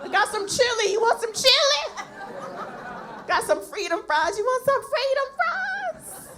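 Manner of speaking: high, slow, sweet army-kitchen auntie; kitchen cook voice. Pretend. Cook in the kitchen offering soldiers chili, high and sweet. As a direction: coo at the soldiers over chili. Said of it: "stereotypical black woman cooking for the soldiers".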